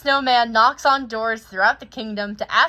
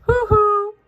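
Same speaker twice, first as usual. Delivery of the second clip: hearty greeting; 11 semitones higher, 9 dB louder than usual. Acted. Oaken greets visitors.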